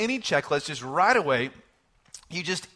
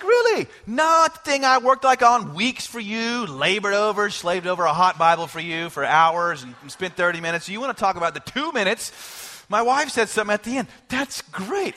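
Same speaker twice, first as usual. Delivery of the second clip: mock indignant inner thought; 4 dB louder than usual. Pastor's hidden gripe about wife's praise, mock-indignant. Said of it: "And I think".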